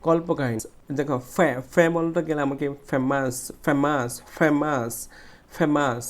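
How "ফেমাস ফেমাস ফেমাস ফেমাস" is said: ফেমাস with a strong "fe"; stressed first syllable. Shown as a demonstration. Teacher drilling students, forceful "fe" in ফেমাস. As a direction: push the first syllable of ফেমাস each time. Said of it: "জোরে উচ্চারণ".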